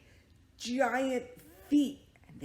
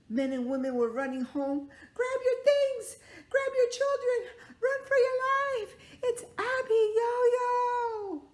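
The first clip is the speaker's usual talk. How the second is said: high, loud terrified shouting; panicked shout; 9 dB louder than usual. Acted. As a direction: scream the warning to the village.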